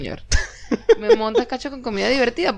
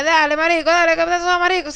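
street vendor voice; 6 semitones higher than usual. Retold or imitated. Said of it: "como un señor de estos que vende vainas en la calle".

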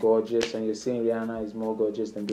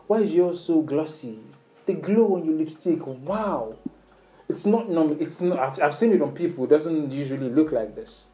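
dramatic compliment. Shown as a demonstration. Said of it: "Do it with panache".

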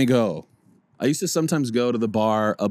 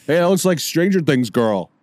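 too-loud remark; 3 semitones higher, 4 dB louder than usual. Retold or imitated. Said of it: "'Cause I was so loud about it".

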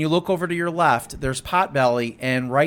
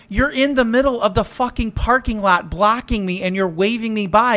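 raised, higher mock scolding; angry retort; 4 semitones higher than usual. Scolding the driver blocking her, raised mock anger. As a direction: tell him off, pitch up. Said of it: "And I go".

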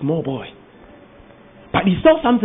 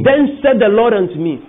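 louder echo of the verse; preacher's echo; 3 semitones higher, 4 dB louder than usual. Shown as a demonstration. Preacher echoing the reader for the congregation, emphatic. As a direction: repeat the line with preaching emphasis. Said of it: "preacher echoes reader".

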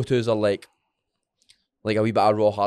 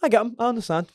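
sympathetic; 10 semitones higher, faster than usual. Retold or imitated. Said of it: "I was like".

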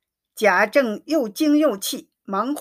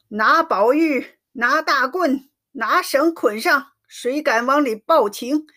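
repeated shouting; 3 semitones higher than usual. Acted. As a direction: hammer out each order as a mock furious father. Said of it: "一连叠声地叫着".

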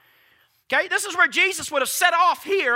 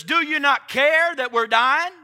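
panicked shout. Retold or imitated. Disciples' panicked question in storm.

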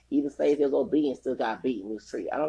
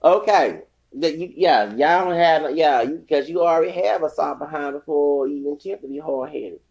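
fired up; 2 semitones higher, 7 dB louder than usual. Real, not acted. Fired up after laughing.

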